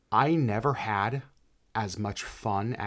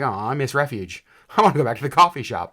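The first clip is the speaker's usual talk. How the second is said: laughing mock whine; 6 dB louder than usual. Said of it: "It's like".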